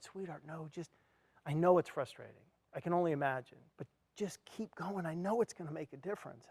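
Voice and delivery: calm him down like a patient wife; gentle reassurance. Retold or imitated. Wife reassuring him to keep going.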